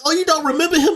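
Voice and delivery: high-pitched mock question. Friend acting out an anime scene, high mock questioning. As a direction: ask it high, as a quoted character. Voicing characters in a retold scene.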